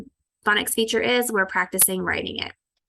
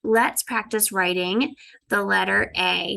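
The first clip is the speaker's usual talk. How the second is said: teacher voice to class. Shown as a demonstration. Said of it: "I'm gonna say".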